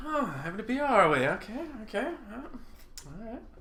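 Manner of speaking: put-on high, sneaky British accent. Imagining IceFrog walking up behind the listener, in a British-accent IceFrog voice. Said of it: "Why does Iceberg have a British accent?".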